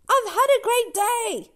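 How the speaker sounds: put-on high, bright little girl; young girl voice. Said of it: "Doc says".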